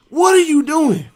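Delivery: loud high demand; officer's shout. Retold or imitated. Officer yelling at Murphy in the hallway, loud and high. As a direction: yell it down the hallway. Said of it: "officer's shout".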